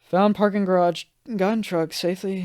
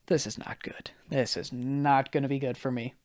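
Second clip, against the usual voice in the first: hushed, uneasy aside to himself; retold hushed worry; 8 dB quieter than usual. Party guest to himself as the heat hits, hushed worry. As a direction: murmur it softly, as a private thought.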